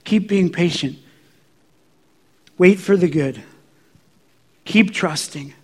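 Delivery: a hushed, near-whispered voice of God; barely above a whisper, tender and patient; softly reassuring whisper; small still voice. Retold or imitated. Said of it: "and he says".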